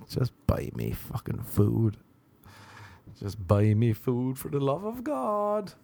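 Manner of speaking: slow, drawn-out weary plea; lightly voiced fed-up dog begging for food; exasperated dog. Dog looking at its owner, slow mock-exasperated pleading. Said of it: "dog's just looking at her being like".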